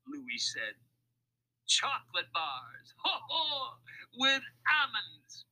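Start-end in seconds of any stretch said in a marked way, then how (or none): 1.7-5.5 high, acted laughing roll call; guffawing. A narrator's reading. Mac taunts the thieves with the cargo, guffawing. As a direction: list them slowly between hearty ho-hos. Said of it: "the laughter beginning again".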